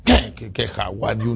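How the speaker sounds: low, irritated mocking repeat; grumpy retort. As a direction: snap back annoyed at the greeting. Respuesta gruñona al saludo. (respuesta malhumorada y burlona)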